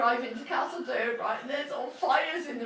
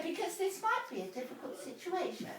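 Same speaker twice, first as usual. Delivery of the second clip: mock hushed dad; 4 semitones higher, 12 dB quieter than usual. Dad's retold line.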